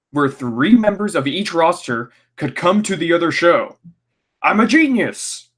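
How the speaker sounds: high, pompous Vince McMahon voice, grandly pleased with himself; Vince impression. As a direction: announce it like a self-proclaimed genius boss. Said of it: "Vince goes".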